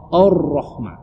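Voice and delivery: "Ar-Rahma" starting on a rounded "or"; first vowel of "Ar-Rahma" darkened to O; A turned to O. Shown as a demonstration. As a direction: say "Ar-Rahma" as if "Or-rohma". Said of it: "maka A-nya menjadi O".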